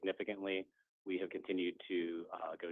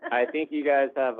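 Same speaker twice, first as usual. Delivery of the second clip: laughing; 8 semitones higher, 15 dB louder than usual. Real, not acted. Teasing banter about football teams.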